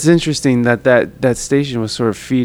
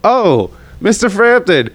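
laughing fawning welcome; 10 semitones higher than usual. Retold or imitated.

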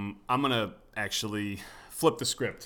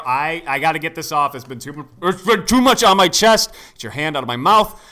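squeaky ventriloquist dummy; 4 semitones higher, 10 dB louder than usual. Acted. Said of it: "mock dramatic confession".

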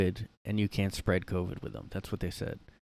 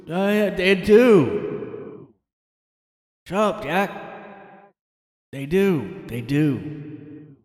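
put-on high, louder insistent old man; mock Biden insisting; 8 semitones higher, 7 dB louder, much slower than usual. Biden answers the reporter, insisting stubbornly.

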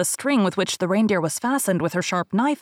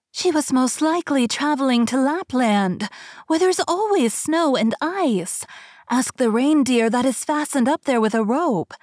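high, birdlike storyteller voice; wood pigeon; 6 semitones higher than usual. Acted. Pigeon telling Gerda where the Snow Queen went, high and birdlike. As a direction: chirp it out like a small bird. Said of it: "said the reindeer".

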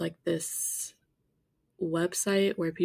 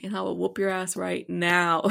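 threat; 7 dB louder than usual. Retold or imitated. Fantasy threat after "match my energy.

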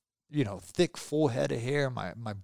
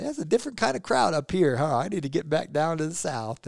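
higher mock Southern-guy voice; a jokey put-on voice, much higher; imitating Jason; 4 semitones higher than usual. To the elevator crowd, a higher joking mock voice. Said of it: "he's like".

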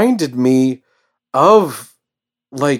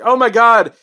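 mock panic; 8 semitones higher, 6 dB louder than usual. Crowd freaking out at psychic event.

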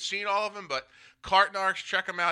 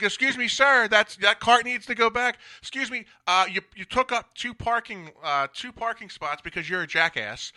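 half-yelled, higher-pitched pretend scolding; mock yell; 4 semitones higher than usual. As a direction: pretend bullhorn call-out, raised and high. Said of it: "and just yell".

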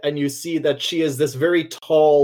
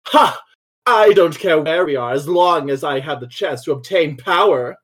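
flamboyant villainess. Acted. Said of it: "with her cape flourish, she says".

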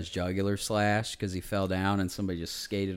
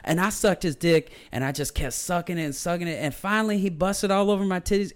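imitating women on the train talking crudely; mocking hooker voice; 8 semitones higher than usual. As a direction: ham up a crude woman bragging. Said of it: "they were just like".

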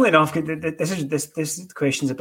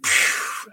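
imitating a smoker's exhale. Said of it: "big puff and then".

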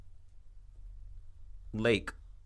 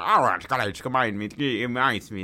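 put-on English accent; 3 semitones lower than usual. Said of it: "a real English nigga's accent".

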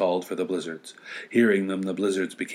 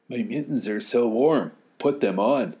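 put-on louder eager child; 4 semitones higher, 5 dB louder than usual. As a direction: another kid chiming in. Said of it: "said another".

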